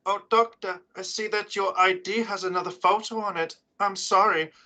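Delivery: a petty bureaucrat villain savouring every word; Postmaster villain voice. Acted. Postmaster villain taunting the Doctor.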